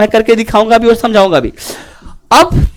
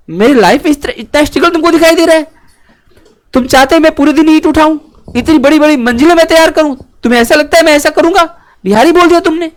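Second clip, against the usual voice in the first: higher-pitched, mock-affronted protest; indignant retort; 3 semitones higher than usual. Acting a person objecting to being called Bihari, mildly indignant. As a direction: act out a worker taking offence at a label. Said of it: "तुमने बिहारी बोल दिया".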